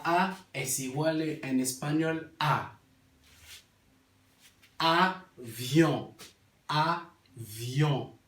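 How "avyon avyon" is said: "Avión" in two parts, ending in a nasal vowel without N; avión en criollo. Shown as a demonstration. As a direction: sound out "Avión" as a-vyon, N silent. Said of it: "En criol". ("Avión" con vocal nasal final, sin N)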